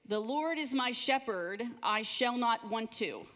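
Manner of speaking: put-on three-year-old reciting. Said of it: "this is how he would say the first line".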